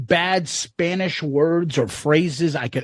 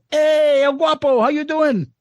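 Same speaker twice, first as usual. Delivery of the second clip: teasing greeting; 7 semitones higher than usual. Retold or imitated.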